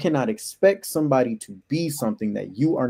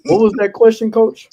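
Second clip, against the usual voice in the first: excited; 11 semitones higher, 10 dB louder than usual. Real, not acted. Still excited after the laughter.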